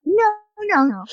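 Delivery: high, flustered refusal; mock freaked-out. Declining to come in, freaked out and high-pitched. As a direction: imitate a panicky turning-down of an invitation. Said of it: "I'm, like, all freaked out".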